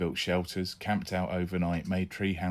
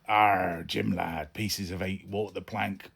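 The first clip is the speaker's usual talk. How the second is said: put-on pirate accent; slower than usual. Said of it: "pirate accent".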